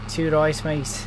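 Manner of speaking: mock accent saying "Two rice, mate"; movie-quote accent. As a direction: quote the film line with "rice" for "rights". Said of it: "But what's two right?".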